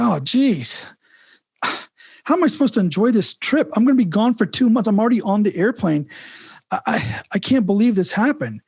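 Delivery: brother on the plane hears his cat is dead; upset brother. Retold or imitated. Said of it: "He's like".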